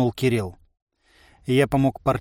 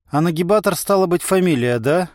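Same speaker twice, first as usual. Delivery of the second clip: plain reading voice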